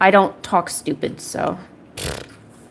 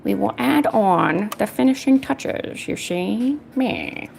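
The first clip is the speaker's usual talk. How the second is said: put-on slow, drawn-out old-movie gangster; put-on gangster drawl; 4 dB quieter, slower than usual. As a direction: stretch the words out like a mock mobster. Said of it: "I have a gangster voice".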